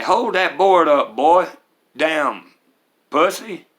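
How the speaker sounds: put-on loud, harsh barked order at a boy; angry stepdad yelling. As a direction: yell it down at a scrawny kid holding a board. Abusive stepdad barking at child.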